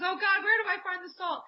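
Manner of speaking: mom calling out. Retold or imitated. Mom in the kitchen asking God for the salt, high exasperated call. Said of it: "she says".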